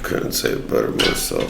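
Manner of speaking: raspy voice. Acted. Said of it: "like, a raspy voice".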